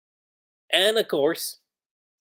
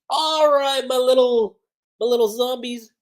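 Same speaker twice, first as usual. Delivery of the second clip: higher, louder, sinister coo; creepy necromancer voice; 8 semitones higher, 4 dB louder than usual. Retold or imitated. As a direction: croon to your undead pets. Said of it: "it's like".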